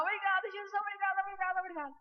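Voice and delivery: high, repeated cries of thanks; jubilant shouting. Retold or imitated. Niece wanting to run shouting through hospital, jubilant shouting. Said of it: "sair gritando no hospital".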